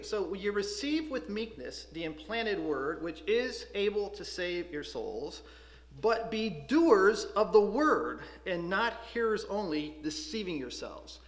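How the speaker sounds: slow, measured reading of the verse; slow solemn scripture reading. Acted. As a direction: read the Bible verse slowly and deliberately. Reads the verse aloud.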